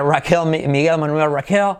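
Spanish names mispronounced in an English accent; acento inglés. Shown as a demonstration. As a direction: say the names like an English native, dark L. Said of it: "Técnicamente mal pronunciada". (nombres españoles con acento inglés)

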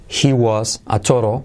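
"total" said as "toro"; T as soft R. Shown as a demonstration. Teacher pointing out the sound, "total" with soft R. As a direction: tap the middle T of "total". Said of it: "T como R suave".

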